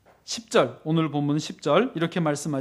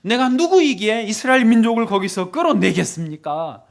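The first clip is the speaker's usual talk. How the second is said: acted-out complaint to God; mild preacher's imitation of a plea; plaintive appeal. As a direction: protest your unworthiness, pleading. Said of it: "하소연을 합니다".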